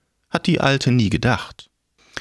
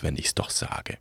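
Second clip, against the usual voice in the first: grim reaper voice; 6 semitones lower, 10 dB quieter than usual. Acted. Death voice, low.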